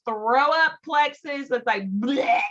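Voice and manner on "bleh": mock vomiting "bleh"; mock retching. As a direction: blurt out a pretend throw-up noise. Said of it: "it's vomiting at the mouth".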